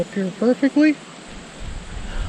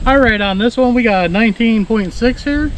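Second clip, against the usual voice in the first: wind on mic; 2 semitones higher than usual. Real, not acted. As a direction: wind gusting across the mic. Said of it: "Sorry for the wind noise".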